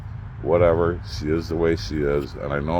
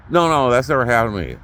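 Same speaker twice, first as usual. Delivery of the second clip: faster, pressing "No, no, that's never happened to me"; insistent repeat; 4 semitones higher, 3 dB louder, faster than usual. Retold or imitated. Ex doubles down, quick and insistent. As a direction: hurry through it, digging in on "never". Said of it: "I'm like".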